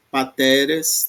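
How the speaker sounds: Pateres slowly, with TE stressed; stress on penultimate. Shown as a demonstration. Teacher adding a last example, slow penultimate stress on Pateres. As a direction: lean on the middle syllable of Pateres. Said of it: "na penúltima".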